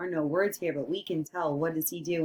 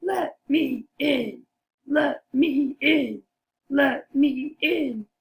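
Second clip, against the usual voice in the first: higher, insistent wolf demand; raised-pitch storybook wolf; big bad wolf; 5 semitones higher, 3 dB louder than usual. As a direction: lightly play the wolf pleading to get in. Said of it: "does the wolf say".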